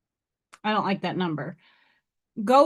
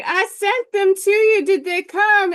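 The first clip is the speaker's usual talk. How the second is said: higher, louder quoted friend; quoting friend; 9 semitones higher, 5 dB louder than usual. Retold or imitated. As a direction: lightly voice the eager friend. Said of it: "She's like".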